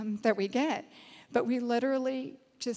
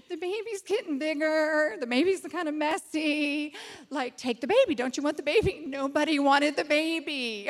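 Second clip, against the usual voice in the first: amused, higher-pitched begging; mock pleading; 4 semitones higher than usual. Offering the messy baby to others, mock pleading. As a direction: coax comically, with a laugh underneath. Comic sales pitch, acted with laughter.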